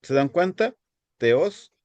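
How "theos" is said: "Theos" accented on the final O; stress on the O. Shown as a demonstration. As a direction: lean on the O of "Theos". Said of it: "acento en la O".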